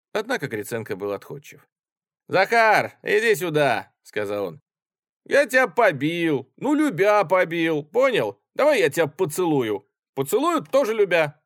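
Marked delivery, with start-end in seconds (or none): 2.3-3.9 high, loud summons; calling the orderly over. Acted. Officer calls his orderly. 5.2-11.4 tipsy affection. Acted. Drunk officer makes up affectionately.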